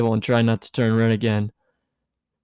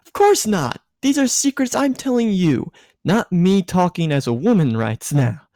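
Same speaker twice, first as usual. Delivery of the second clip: high, giddy tipsy woman, voice pitched up; tipsy Misato; 6 semitones higher than usual. A narrator's reading. Tipsy Misato lecturing Shinji, high and giddy.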